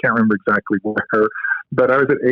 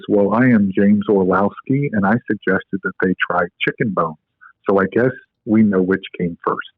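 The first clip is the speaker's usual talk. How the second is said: deep voice; 3 semitones lower than usual. Retold or imitated. Orlowski revealing himself to Scotty, dry deep voice. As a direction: land the reveal in that low formal voice. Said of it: "in a very deep voice".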